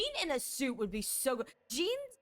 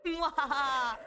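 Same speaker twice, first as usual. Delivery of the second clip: villain laugh; 3 semitones higher, 4 dB louder, slower than usual. Acted. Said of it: "I am becoming the tentacle monster".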